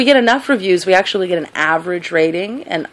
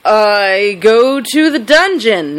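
slow, drawn-out awkward reply; hesitant answer; 3 dB louder, much slower than usual. Acted. Answering what she does for fun, hesitant and drawn out. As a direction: stretch the words out as if unsure they should be said. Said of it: "that's not the right answer".

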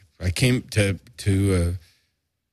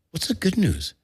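a lightly voiced frail old man, pitched up; imitating sick father; 9 semitones higher than usual. The sick father asking his son, lightly voiced frail question. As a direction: ask it like a weak, curious patient.

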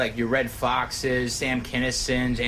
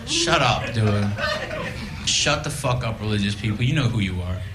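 mock rant; 4 semitones higher than usual. Comic on stage yelling at religious people, mock rant. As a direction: rail at them for laughs.

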